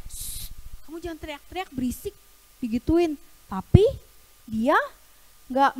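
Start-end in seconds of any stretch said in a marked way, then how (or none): 0.1-2.1 hushed, much softer scolding; annoyed shushing. Acted. Crowd tells blind man to stop shouting, hushed scolding. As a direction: shush someone under your breath. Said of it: "gak suka, kayak".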